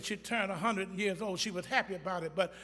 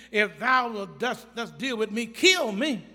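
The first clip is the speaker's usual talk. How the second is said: Moses despairing; 3 semitones higher, 4 dB louder than usual. Retold or imitated. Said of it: "He says".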